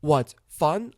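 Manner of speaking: slow, deadpan sarcasm, each word set apart; sarcastic. Shown as a demonstration. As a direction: say it slowly as if it's no fun at all. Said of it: "I can hear the sarcasm".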